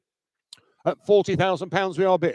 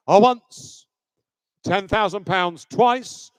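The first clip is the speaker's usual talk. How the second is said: loud auctioneer call; frantic trading floor shouting; 4 dB louder, much slower than usual. Real, not acted. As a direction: call out once to the room. Auctioneer calling the hammer.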